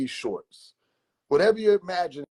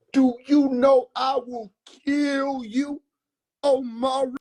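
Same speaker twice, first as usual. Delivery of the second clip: slow, higher voiced uncle threat; calm threat; 10 semitones higher, slower than usual. Uncle calmly warns his nephew, slow threatening question. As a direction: ask it calmly, like a sure promise. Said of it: "Nigga said".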